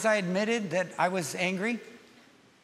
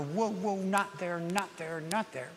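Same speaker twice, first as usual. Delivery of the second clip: soft, fading warning to himself; quiet whoa, not there; inner warning; 5 dB quieter than usual. Retold or imitated. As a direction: rein yourself in, growing quieter.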